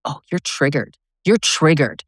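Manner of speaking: mocking dismissal. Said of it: "my biggest piss off is".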